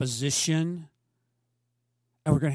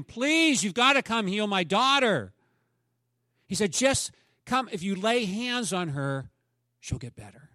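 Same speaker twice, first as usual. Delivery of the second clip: high, pleading, fading to hope at the end; a father begging for his daughter; 5 semitones higher, 3 dB louder than usual. Retold or imitated. Jairus begging Jesus to heal his daughter, pleading.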